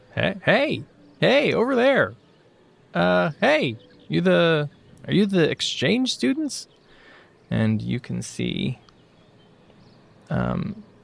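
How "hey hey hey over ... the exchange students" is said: put-on young man's voice, pitched up, calling out. Voicing a young man calling out to the exchange students: young man NPC voice. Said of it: "coming out of a nearby storefront is a young man".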